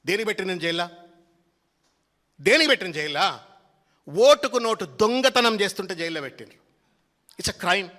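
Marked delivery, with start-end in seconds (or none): 2.4-3.3 louder, sarcastic echo ending on a rise; mock-outraged retort, rising; mocking indignant repeat. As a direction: throw his whining question back at him, louder. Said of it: "నిన్ను జైల్లో పెట్టినరు అని మాట్లాడుతున్నావు".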